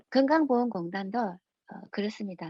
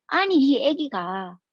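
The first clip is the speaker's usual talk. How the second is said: slow, drawn-out mock indignation; retold indignant protest; 3 semitones higher, 4 dB louder, slower than usual. Angry father arguing with the office over his baby, mock-indignant. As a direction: imitate an exasperated father objecting. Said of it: "너무 화가 나가지고".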